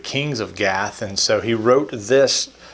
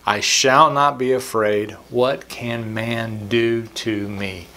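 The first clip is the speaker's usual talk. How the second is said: slow, deliberate reread of the verses; slow scripture reading; slower than usual. Acted. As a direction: dwell on every phrase, slowly. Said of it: "let me repeat that again".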